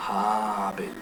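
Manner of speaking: Habel with a drawn-out first A, HAAA-bel; stress on first syllable. Shown as a demonstration. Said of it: "está en la A".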